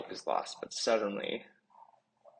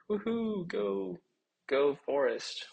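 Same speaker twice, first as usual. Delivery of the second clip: high, thrilled whoops; excited cheering; 12 semitones higher, 4 dB louder, slower than usual. Acted. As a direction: cheer your side on. Bella Bun cheering the battle.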